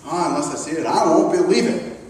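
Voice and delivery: lightly voiced low, dismissive sceptic; doubting Thomas. Thomas answering the disciples, lightly voiced low doubt. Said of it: "is what he says".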